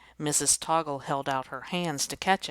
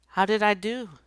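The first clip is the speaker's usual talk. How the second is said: eager question; 6 semitones higher, 8 dB louder than usual. Acted. Teacher eager after falling.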